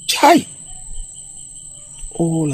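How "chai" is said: high, loud "Chai!"; dismayed exclamation. Acted. Woman alone fears she was overheard, dismayed. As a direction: cry out in sudden dismay. Self-reproach after girl leaves.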